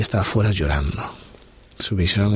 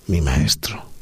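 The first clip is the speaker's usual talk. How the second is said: awed whisper; 4 semitones lower, slower than usual. Acted. María reconoce a Jesús.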